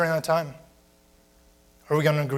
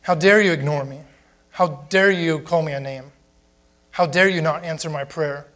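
indignant; 4 dB louder than usual. Pretend. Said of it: "We lose the bigger picture".

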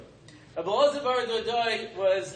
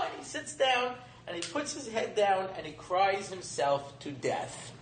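somber storytelling; 4 dB quieter than usual. Retold or imitated. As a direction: let the climax sink into a grave hush. Climax drops to tragic end.

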